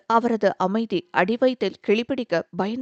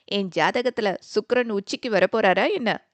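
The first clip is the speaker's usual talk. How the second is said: teasing. Acted. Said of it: "நக்கலாக கேட்க".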